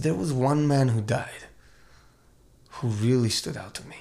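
put-on measured, halting German accent. Doctor interviewed post-war, speaking in a German accent. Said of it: "I'm doing my German accent".

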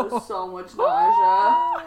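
very high, slow squeal; squeaky disgust. Real, not acted. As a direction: squeal it out, grossed out. Repeats with exaggerated disgust.

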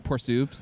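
"Por soups" said as a lazy English-style clip; clipped Spanish slang. Retold or imitated. Student abbreviating Spanish phrase, lazy clip. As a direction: cut "Por soups" short like a joke. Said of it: "so I'd be like".

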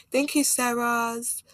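"Sarahs" drawn out slowly with an extra s; plural added on. Shown as a demonstration. Podcaster showing her habit of adding plurals, "Sarahs" with an added s. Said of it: "adding plurals to the end of my words".

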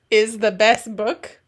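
put-on lightly Russian-accented reading. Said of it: "read this one without an accent".

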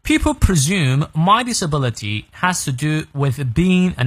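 slow, clear read-through for learners; slow model reading. Shown as a demonstration. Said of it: "再来一遍".

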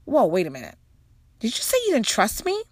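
hammed-up double take; mock shocked. Mother reacting to her son's distrust, rising in disbelief. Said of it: "I'm like".

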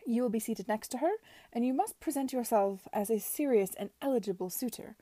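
a lightly voiced imperious aunt, measured; Lady Denham lecturing Edward, haughty; stern aunt. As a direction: lay down the law to her nephew.

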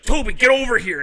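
loud, high imitated yell; urgent mock shout; calling the dog. Dog owner calling his dog.

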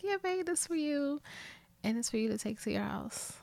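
soft, sweet, hushed lovey quote; mock-sweet whisper to a boyfriend. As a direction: coo it to him softly. Retold sweet handover to boyfriend.

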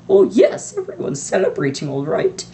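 sharp, high impatient burst then dropping. A narrator's reading. Stern witch scolding the headmaster, impatient. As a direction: snap it out, fed up with the fuss. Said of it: "she said impatiently".

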